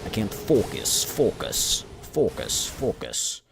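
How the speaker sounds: mock Russian accent saying focus; playful Russian accent. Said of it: "saying focus in a Russian accent".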